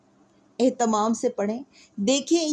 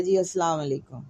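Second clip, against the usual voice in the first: casual greeting; 5 semitones lower than usual. Shown as a demonstration. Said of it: "ڈھیلے سے انداز میں آپ کو کہتا ہے".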